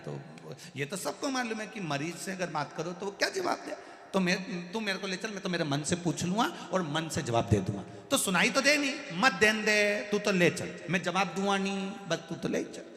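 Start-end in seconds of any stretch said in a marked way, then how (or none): 4.1-12.8 insistent grandpa. Retold or imitated. Stubborn grandpa insists loudly.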